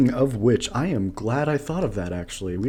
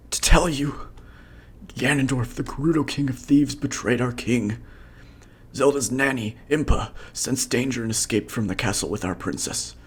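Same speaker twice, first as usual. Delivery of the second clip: wounded soldier; 3 semitones higher than usual. Acted. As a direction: gasp it out, badly hurt. Voices wounded guard.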